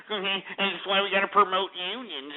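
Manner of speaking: soft mock imitation of the caller. Host mimics prank caller's union line, mockingly. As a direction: parrot him softly in a silly mimicking voice. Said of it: "trying to say".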